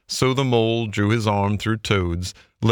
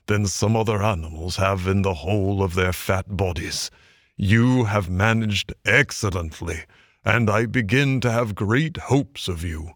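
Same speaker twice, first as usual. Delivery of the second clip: a gruff elder's measured praise; dry, quiet Badger. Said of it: "in his dry, quiet way".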